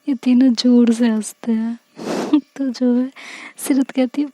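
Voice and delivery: ordinary delivery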